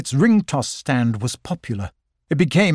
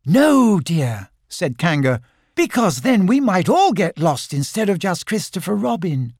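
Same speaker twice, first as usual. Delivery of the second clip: motherly Kanga; 5 semitones higher than usual. Acted. Kanga gently refusing Roo.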